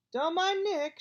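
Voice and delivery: loud shout. A narrator's reading.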